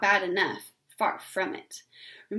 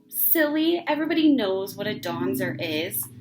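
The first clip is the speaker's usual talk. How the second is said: louder, scornful know-it-all; 3 dB louder than usual. Acted. Ramona to her sister, scornful know-it-all. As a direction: talk down to her as if obvious. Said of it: "Ramona was scornful".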